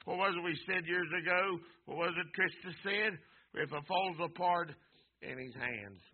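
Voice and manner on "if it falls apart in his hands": much softer, hushed and low; quiet, reflective quoting. Acted. Preacher quotes Trista's saying to the church, hushed and low. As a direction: draw them in with a near-hush.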